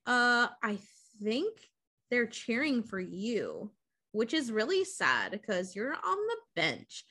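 mock catty cheerleader, drawing it out; bitchy cheerleader. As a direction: put him down with mild fake sympathy. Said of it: "super bitchy about it".

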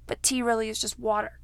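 whispered joking aside. Real, not acted. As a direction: breathe it as a whisper.

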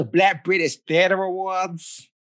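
put-on American accent with hard r's. Shown as a demonstration. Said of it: "in your best American accent".

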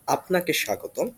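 "Apnake shagotom" in native Bangla pronunciation, polite and even; formal Bangla welcome. Shown as a demonstration. Host showing how elders are welcomed in Bangla, polite. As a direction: say "Apnake shagotom" as a respectful Bengali greeting. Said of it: "welcome them saying".

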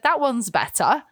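put-on lightly done French Canadian English accent; a hint of a French Canadian accent, laughing; mild French Canadian English accent. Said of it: "French Canadian English accent".

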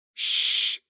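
sharp voiceless shush; hissed shush. Acted. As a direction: hush her urgently. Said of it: "Someone hissed in her ear".

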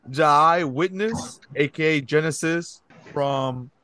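reading names a little tipsy. Real, not acted. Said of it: "I'm a little tipsy".

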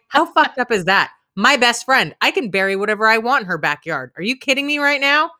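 wife teases husband with mock outrage. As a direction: act incredulous. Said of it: "I'm like".

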